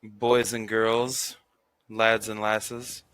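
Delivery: slow, drawn-out hype host intro; show host announcer. Acted. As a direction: announce it like a showman. Host opening the room.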